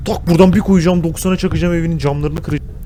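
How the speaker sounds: playful tough-guy threat; mock threat. Real, not acted. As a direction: threaten the villain in jest. Threatening game villain.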